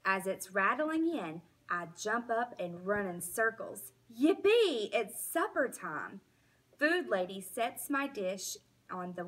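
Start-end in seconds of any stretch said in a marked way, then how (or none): 4.2-4.9 high, loud burst of joy; a dog squealing with delight; excited yelp. A narrator's reading. Dog jumping in circles at supper, squealing with joy.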